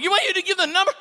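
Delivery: high, loud exasperated shout; hammed-up furious rant; exasperated yelling. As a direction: yell at him, fed up. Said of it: "I'm like".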